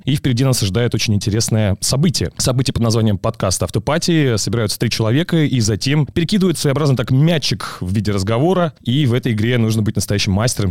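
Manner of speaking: lively live play-by-play; sports commentator. Shown as a demonstration. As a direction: call it like a live broadcast. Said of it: "но попытайся прокомментировать".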